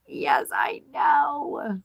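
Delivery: whisper. Real, not acted. Whispered aside while streaming.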